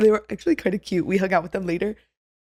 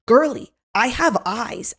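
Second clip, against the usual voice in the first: slow, higher, mock-sassy comeback; sassy retort; 4 semitones higher, 3 dB louder, slower than usual. Witness to a lying line cutter, sassy retort. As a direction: draw it out as a put-down.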